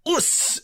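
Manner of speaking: high, soft "us" meaning nailed it; Aussie "us". Retold or imitated. Explaining Bandit's catchphrase, high soft "us". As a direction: clip "us" short and proud. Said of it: "you just do a little bit of a".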